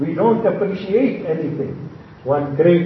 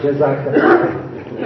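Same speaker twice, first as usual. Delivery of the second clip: whispered Jazakallah; 3 semitones lower, slower than usual. Real, not acted. Confessing we never thanked the wife.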